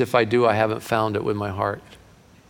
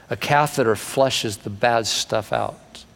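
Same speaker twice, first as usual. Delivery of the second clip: slow repeat; slower than usual. Shown as a demonstration. Preacher repeating the point to the congregation, slow. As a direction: lay it down again, slower. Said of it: "flushes stuff out".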